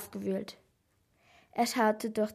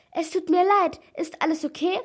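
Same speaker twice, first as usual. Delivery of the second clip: higher, louder flustered apology; zmieszane przeprosiny; 8 semitones higher, 6 dB louder than usual. A narrator's reading. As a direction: blurt an anxious apology in a raised voice. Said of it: "stammelte Helena".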